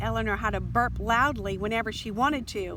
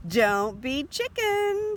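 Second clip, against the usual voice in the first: loud, slow, higher mocking taunt; taunting dare; 5 semitones higher, 5 dB louder, slower than usual. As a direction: dare her, drawing it out. Violet taunting Eleanor.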